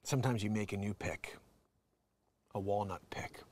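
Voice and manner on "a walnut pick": whispered aside. Real, not acted.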